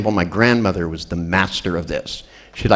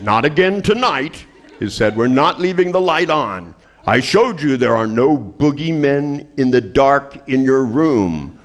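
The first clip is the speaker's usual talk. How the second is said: exasperated dad; 4 semitones higher, slower than usual. Retold or imitated.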